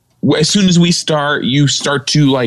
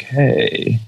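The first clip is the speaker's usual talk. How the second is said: a light creaky fry on the word; hint of vocal fry. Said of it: "vocal fry where he's just like".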